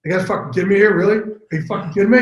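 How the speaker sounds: retold indignation. Actor turning to his co-stars over a script correction, mock indignant. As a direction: re-enact an exasperated challenge to co-stars.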